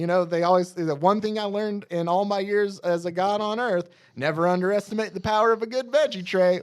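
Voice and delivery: mock-wise voice. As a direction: preach it like an old god. Voicing Darkseid in comic retelling.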